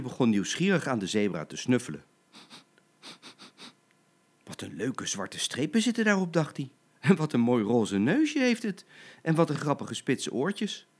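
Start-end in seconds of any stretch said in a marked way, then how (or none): 4.4-10.9 higher-pitched admiring lion cub; lightly voiced curious cub; delighted wonder.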